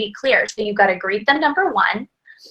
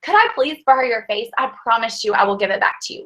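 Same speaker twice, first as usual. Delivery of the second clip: cute ask; 3 semitones higher than usual. Shown as a demonstration. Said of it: "you can say something cute like".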